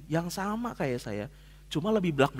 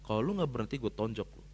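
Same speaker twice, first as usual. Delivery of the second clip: low, soft, menacing repeat; quiet retold threat; 6 semitones lower, 6 dB quieter than usual. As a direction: say it under your breath, cold. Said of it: "Saya ngomong kayak gitu". (ancaman pelan dan dingin)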